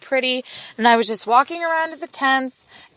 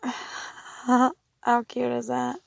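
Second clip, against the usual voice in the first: laughing; 8 dB quieter, much slower than usual. Real, not acted. Gushing about bus life plan.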